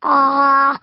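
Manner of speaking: ah for the nurse. Pretend. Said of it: "say ah".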